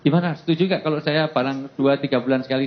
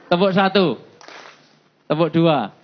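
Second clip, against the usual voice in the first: aba-aba tepuk; 5 semitones higher than usual. Real, not acted. Memimpin tepuk peserta.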